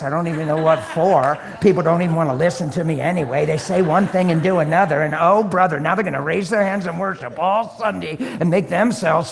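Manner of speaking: loud, worked-up mock grievance; hammed-up self-pitying tirade; sarcastic complaint. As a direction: rant like someone feeling wronged and unappreciated. Acts out self-centred complaint as sarcasm.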